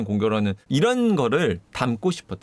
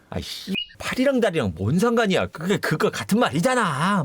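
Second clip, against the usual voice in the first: irritated retort, pitched up; mock annoyance; 4 semitones higher than usual. Witness snapping back over arms versus legs, annoyed. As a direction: retell a witness fed up with nitpicking.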